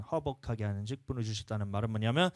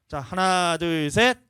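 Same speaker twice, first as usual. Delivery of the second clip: loud, high call to the congregation; loud count; 7 semitones higher, 10 dB louder, much slower than usual. Real, not acted. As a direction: count it out loudly so all join in. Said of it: "크게".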